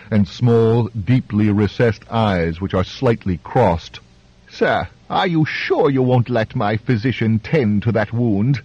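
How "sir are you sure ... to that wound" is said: high grating voice. Acted. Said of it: "in his high, grating voice".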